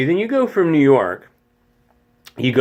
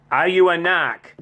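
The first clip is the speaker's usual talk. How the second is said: imitating a Boston accent, pitched higher; 5 semitones higher than usual. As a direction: ask again as a Bostonian, R dropped. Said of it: "one of those accents".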